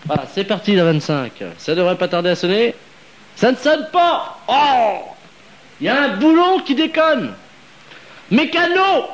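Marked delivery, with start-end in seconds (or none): 3.3-9.0 high mock exasperation. Host mocks broken phone line.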